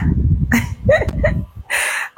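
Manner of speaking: sudden high breathy laugh. Real, not acted. Host delighted at the donation total, high laugh.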